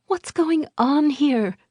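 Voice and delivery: high, sharp demanding question; demanding woman. A narrator's reading. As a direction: demand an answer. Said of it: "Liesel demanded".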